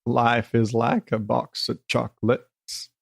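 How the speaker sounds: slow Southern movie-character cadence; measured, simple drawl with spaced-out words; slow it right down, word by word; Forrest Gump. Shown as a demonstration. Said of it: "have that cadence".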